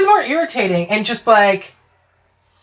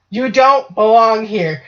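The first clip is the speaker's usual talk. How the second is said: slow, firm order to leave; firm telling; slower than usual. Retold or imitated. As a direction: stop asking and tell the ghost to get out. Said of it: "You go from asking to telling".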